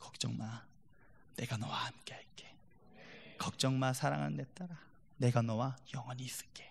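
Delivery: soft, low, tender whisper, gentle and comforting.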